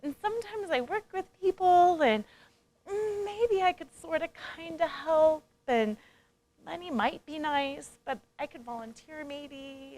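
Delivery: unsure, meandering pitch with trailing ends; mock hesitant rambling. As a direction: hedge every phrase, lightly mocking. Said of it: "it's all convoluted".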